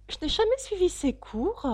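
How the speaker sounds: high, plaintive sighing regret. A narrator's reading. Mock Turtle regrets missing the classes, with a sigh. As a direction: lament it in a high voice. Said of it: "avec un soupir".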